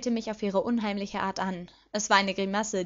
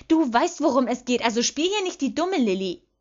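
raised, higher, impatient scolding; angry scolding; 4 semitones higher, 7 dB louder than usual. A narrator's reading. Petunia scolds her sister for playing dumb, angry.

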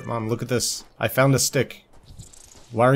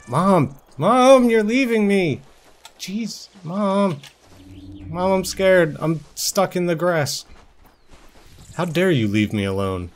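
higher, whiny lost-kitten calling; mock scared whine; 7 semitones higher, slower than usual. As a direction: cry out for Mom, hammed-up panic. Kitten left behind, calls Mom.

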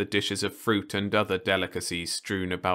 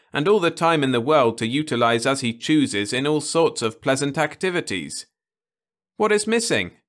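higher, louder rising plea; earnest young man; 9 semitones higher, 7 dB louder than usual. Acted. Ludovic lists their comforts to Osmond, building. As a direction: build to the question.

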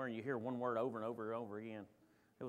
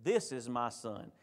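"This" picked out, slower and lower; stress on THIS; 5 semitones lower, slower than usual. Retold or imitated. Preacher contrasting Matthew's wording for the congregation, stress on "This". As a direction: point out the word "This" with slow weight. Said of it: "like he's talking to everyone else".

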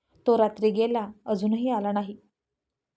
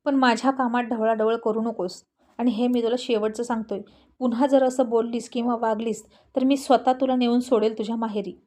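angry shout. A narrator's reading. Husband yelling at his pregnant wife, mildly angry. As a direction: scold her with restrained anger. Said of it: "तो तिच्यावर खूप जोरात ओरडला".

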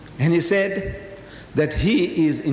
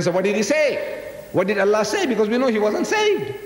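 higher-pitched, pressing questions; insistent demand; 5 semitones higher than usual. Acted. Reverend demands to know what Allah said, insistent. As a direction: press the opponent hard for the answer.

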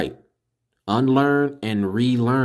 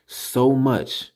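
"so much" punched higher; emphatic; 4 semitones higher than usual. Real, not acted. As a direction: lean hard on "so much". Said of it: "I have to put emphasis on this".

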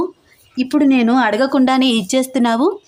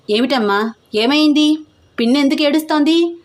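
alarmed asking; 6 semitones higher than usual. A narrator's reading. Son waking to a commotion.

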